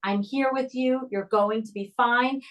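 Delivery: put-on steady, soothing reassurance to a scared child; very calm voice. Shown as a demonstration. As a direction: keep it calm and even while the child screams. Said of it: "in this very calm voice".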